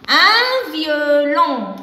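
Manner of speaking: very slow, loud and drawn out; slow sounding-out. Shown as a demonstration. Teacher checking a word's sound with children, slowly sounded out. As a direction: stretch each syllable for young learners.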